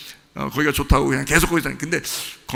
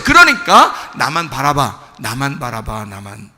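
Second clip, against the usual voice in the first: tender appeal; 4 dB louder, slower than usual. Acted. God to sinner, asking for their gaze, tender.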